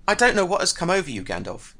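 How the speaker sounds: high, fast and indignant; agitated. A narrator's reading. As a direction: burst out defensively. Bilbo arguing over the ring.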